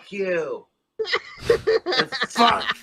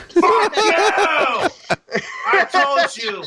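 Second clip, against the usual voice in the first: furious shout; 4 semitones higher than usual. Real, not acted. Man screaming at a bottle on his desk, furious shout. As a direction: scold the bottle at full volume.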